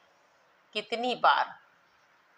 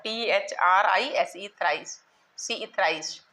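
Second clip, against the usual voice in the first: spelling it out. Shown as a demonstration. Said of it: "इसी प्रकार से थ्राइस".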